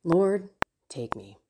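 mild imitation of her own worn-out prayer; weary despair. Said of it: "Many times I have said".

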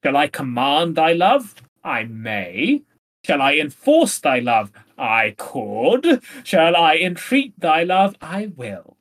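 lightly pompous, swinging from question to answer; a touch of arrogant recital; pretentious Armado. Acted. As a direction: pose each question grandly, then drop into the answer. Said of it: "most pretentious and arrogant person imaginable".

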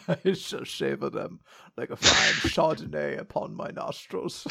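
low, soft mock-refined voice; hushed, snooty gentleman dog through giggles. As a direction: savor it like a pompous connoisseur, laughing. Joins in the dog voice.

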